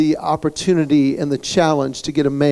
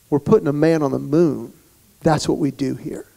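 dead serious, sincere; 4 dB quieter than usual. Retold or imitated. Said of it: "with a straight face, with a full heart".

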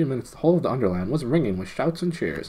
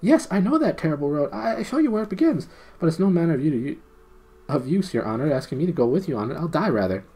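high gnome voice, scared; high frightened gnome; 8 semitones higher, faster than usual. Acted. Gnome refusing to lead the way, high and fearful. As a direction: plead like a terrified little gnome.

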